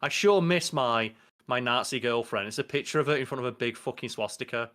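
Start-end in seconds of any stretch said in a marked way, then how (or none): 0.0-2.5 slow, lightly acted wistful villain; a hint of a villain reminiscing; Homelander. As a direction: draw it out as a mock-longing quote. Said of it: "Homelander's looking at her like".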